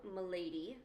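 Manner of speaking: "m'lady" said with a lilting rise, mock British; a courtly "m'lady" drawn upward. Corbeau greeting the listener, rising mock British "m'lady". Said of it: "he goes".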